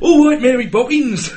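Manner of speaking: high, loud mock English accent; drawn-out American attempt at English; bad English accent. Mocking Americans doing English, hammed-up accent. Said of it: "trying to do an English accent".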